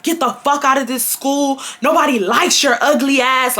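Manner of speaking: mock his tirade at moderate volume; retold mild yell. Boy insults her at school, mild mock yell.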